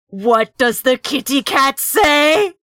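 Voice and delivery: slow imitation of a hulking butler; big butler guard. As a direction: draw it out like a big cartoon guard. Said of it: "big butler guard. When he's like".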